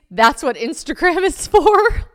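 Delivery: high, loud laughing read; laughing while reading. Real, not acted. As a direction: read it through laughter, slowly breaking up. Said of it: "And then I write in parentheses".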